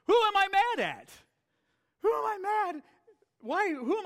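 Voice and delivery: high, loud rhetorical outburst; emphatic cry. Real, not acted. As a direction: hammer the question home.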